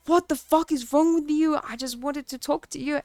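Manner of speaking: high, loud mock indignant yell; hammed-up shouted what the fuck; imitated angry outburst. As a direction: throw the ex's offended outburst back. Imitating ex's angry retort.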